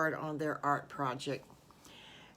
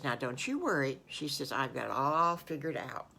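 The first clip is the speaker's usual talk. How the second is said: lower, calm reassuring teacher voice; 4 semitones lower than usual. Acted. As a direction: soothe the worried child, gently. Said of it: "Miss Eileen says".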